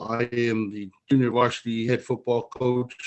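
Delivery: choppy audio dropping in and out; bad connection. Real, not acted. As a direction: voice breaking up over the call. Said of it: "you're breaking up a little bit".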